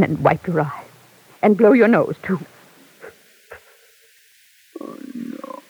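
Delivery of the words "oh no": soft, hushed whisper of comfort. Acted. Mother comforts her weeping son, in a whisper. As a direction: soothe him in a breathy hush.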